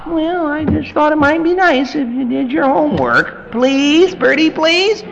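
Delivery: high, meek begging parent; pleading parent. Retold or imitated. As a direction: beg the child sweetly.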